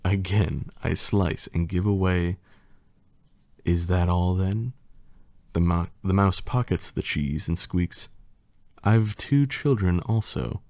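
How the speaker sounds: lightly theatrical poem reading; reading a silly poem to the audience with mock drama; hammed-up storybook recital; story narration. Reads rhyming story aloud.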